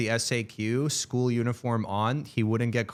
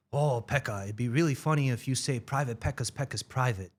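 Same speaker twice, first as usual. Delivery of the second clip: put-on kid voice; 3 dB quieter than usual. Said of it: "Did he talk like that".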